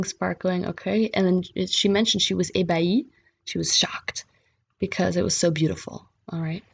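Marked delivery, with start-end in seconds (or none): 3.4-4.3 whispered gloss. Real, not acted. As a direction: breathe it out as a quick aside.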